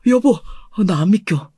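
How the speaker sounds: ordinary delivery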